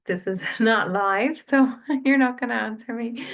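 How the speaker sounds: laughing lightly through the words, pitch lifting; amused chuckling. Real, not acted. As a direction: chuckle at your own one-sided question. Joking that recording isn't live.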